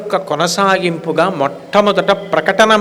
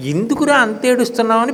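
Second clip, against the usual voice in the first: put-on higher, quick anxious mother asking her crying child; a mother rushing in to soothe her baby; worried mother; 6 semitones higher, faster than usual. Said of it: "అమ్మ పరిగెత్తుకొస్తుంది". (ఆందోళనతో పరిగెత్తుకొచ్చిన తల్లి, ఎత్తైన వేగమైన స్వరం)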